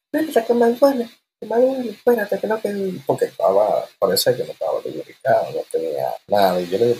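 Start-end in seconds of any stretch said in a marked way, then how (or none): 0.1-3.0 high imitated woman's voice pleading; high mock female voice begging him to stop; woman in pain. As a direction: pitch way up, mimic her pleading.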